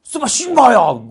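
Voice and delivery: high, loud burst of fake Russian; mock Russian outburst. Russia telling Japan off, mock angry shout. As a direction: explode like a comic Russian curse. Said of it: "욕하는 거 아니야?".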